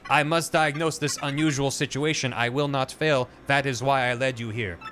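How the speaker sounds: measured, even machine voice; computer voice. Acted. The computer explaining its glitch to Peach, lightly voiced machine. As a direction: speak like a calm, curious computer.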